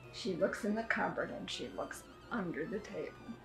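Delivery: plain reading voice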